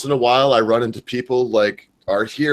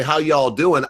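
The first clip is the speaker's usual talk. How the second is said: Southern greeting; 5 semitones higher, slower than usual. Shown as a demonstration. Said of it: "When I say".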